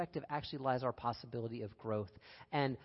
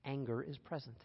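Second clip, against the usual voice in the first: gentle noting; 6 dB quieter than usual. Shown as a demonstration. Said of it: "the phrase goes".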